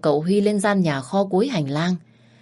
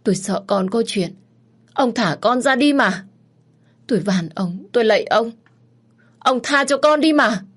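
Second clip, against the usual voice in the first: rising higher and louder as she pleads; desperate begging; 7 semitones higher, 4 dB louder than usual. Acted. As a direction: beg the husband, panic climbing. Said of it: "khẩn khoản van xin".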